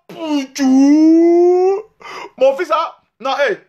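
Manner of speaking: high, loud motherly coo; mother's voice. Retold or imitated. Son voicing his mother calling him, high loud coo. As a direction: coo like a proud mother kissing her son. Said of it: "voicing his mother greeting her son".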